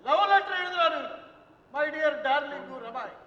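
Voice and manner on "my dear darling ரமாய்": mock reading. Father reads son's love letter mockingly.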